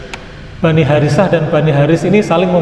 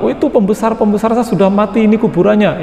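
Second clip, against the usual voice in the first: lightly voiced boaster, pitched higher; boasting clansman; 5 semitones higher than usual. One clan boasting to the other of dead leaders, boastful. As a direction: point out your leaders' graves, higher-pitched.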